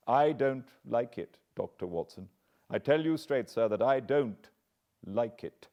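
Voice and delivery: earnest butler. Acted. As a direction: press it with passion. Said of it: "He spoke with a sudden passion of earnestness".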